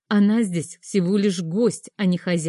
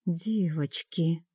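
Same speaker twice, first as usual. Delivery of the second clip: mouthed; 6 dB quieter, much slower than usual. A narrator's reading. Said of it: "одними губами сказала я".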